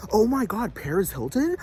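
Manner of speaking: hammed-up starstruck gushing; mock eager begging. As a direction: ham up a desperate plea for the tape. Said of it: "clamoring for it and begging people".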